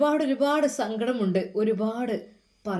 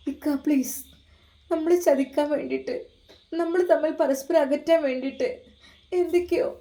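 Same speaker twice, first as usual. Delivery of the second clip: lightly voiced wife, higher, begging; pleading wife; 5 semitones higher than usual. Wife begs her husband not to leave, higher pleading voice. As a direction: beg him to believe you.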